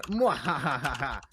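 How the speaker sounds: hammy villain laugh, mwah ha ha; evil cackle. Acted. Villainous laugh after robbery.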